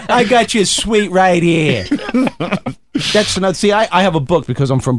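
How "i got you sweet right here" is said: slow, laughing wiseguy threat; mock tough guy. Brooklyn native mimicking a local threat, slow and laughing. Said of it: "That's another thing".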